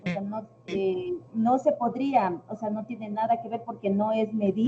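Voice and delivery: speech breaking up over a bad connection; words cut into pieces by the line; choppy audio. Real, not acted. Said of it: "te escucho entrecortado".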